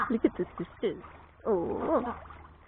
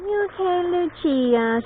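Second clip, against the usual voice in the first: calling out; 11 semitones higher, 10 dB louder, slower than usual. Real, not acted. Calling to a resting penguin.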